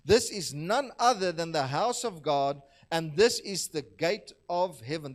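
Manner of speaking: emphatic, measured Bible reading; scripture reading. Acted. Preacher reads Jacob's waking to the congregation, scripture reading. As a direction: read it out to the room, leaning on key words.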